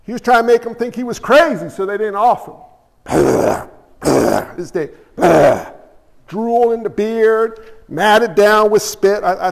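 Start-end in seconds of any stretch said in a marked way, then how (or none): 3.1-3.6 wordless guttural drooling noise; mock crazed sputter. Acting crazy David drooling, spitting. 5.2-5.6 guttural drooling noise; mock crazed sputter. Acting crazy David drooling, spitting.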